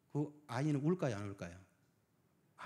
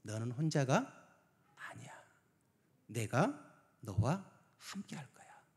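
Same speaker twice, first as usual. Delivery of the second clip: tender reassurance; 2 semitones lower, slower than usual. Retold or imitated. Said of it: "예수님 우리들에게 뭐라고 말씀하실 것 같아요".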